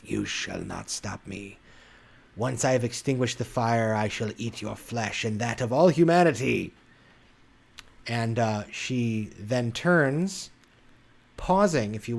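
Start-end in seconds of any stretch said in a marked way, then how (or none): 0.0-6.7 a shadow creature threatening the heroes with a booming echo. Acted. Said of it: "and her voice echoes".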